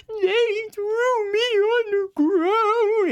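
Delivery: high, drawn-out fake sobbing like a baby; mock bawling. Host mimics the arrested teen, mocking, bawling and high. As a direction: wail it like an overgrown child crying. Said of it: "crying like a baby".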